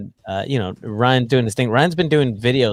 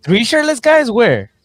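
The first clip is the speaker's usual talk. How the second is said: surprised; 11 semitones higher, 6 dB louder, slower than usual. Real, not acted. Hearing about the shirtless fans.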